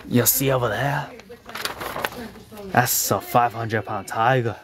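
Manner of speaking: lightly put-on Australian accent; Australian accent attempt. Coworker asked him to try Australian, attempted Australian accent. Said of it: "Can you do an Australian accent".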